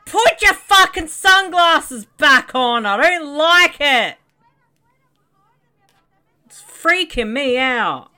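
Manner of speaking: slow, loud, drawn-out scared character; slow creeped-out voice. Pretend. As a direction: drag it out, spooked.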